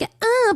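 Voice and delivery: short high mock moan; a half-hearted demo moan. Shown as a demonstration. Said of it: "I can go like".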